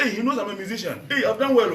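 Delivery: high-pitched gleeful comeback; happy. Retold or imitated. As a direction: act out delight at an insult, laughing.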